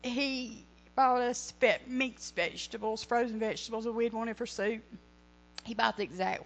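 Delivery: fighting back real tears; tearful. Real, not acted. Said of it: "I don't cry".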